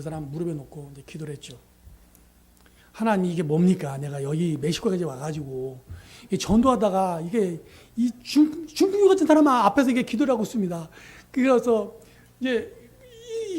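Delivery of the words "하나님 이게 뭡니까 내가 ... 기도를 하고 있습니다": grumbling prayer. Retold or imitated. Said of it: "투덜투덜하면서 기도를 했어요".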